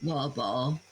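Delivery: put-on British accent, swallowed consonants; amateur British accent on request. Shown as a demonstration. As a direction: do a rough British "water bottle". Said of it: "Say water bottle".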